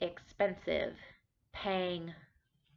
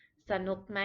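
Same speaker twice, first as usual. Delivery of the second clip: สนุกไหม asked brightly and fast; a friendly local checking in; friendly Thai question; Thai host asking; 2 semitones higher, much faster than usual. Retold or imitated. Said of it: "a Thai person to s-, ask you".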